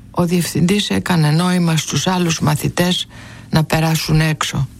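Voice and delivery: usual speaking voice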